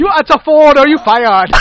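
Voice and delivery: put-on high, very loud Asian-accented threat; mock Asian accent. Boss threatening to fire Jamie, shouted mock Asian accent. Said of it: "it's Asian".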